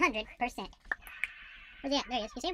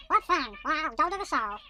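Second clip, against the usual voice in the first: temp Maisie voice; 2 semitones higher, slower than usual. Acted. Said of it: "that's a temp Maisie voice".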